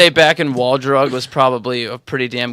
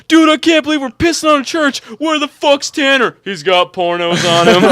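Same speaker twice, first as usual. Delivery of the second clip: laughing high disbelief; 10 semitones higher than usual. Retold or imitated. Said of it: "just like".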